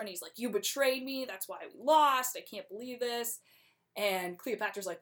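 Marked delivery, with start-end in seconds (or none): 0.4-3.4 mock accusation, somewhat higher; hammed-up blame, pitched up; retold accusing outburst. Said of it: "Anthony starts blaming Cleopatra".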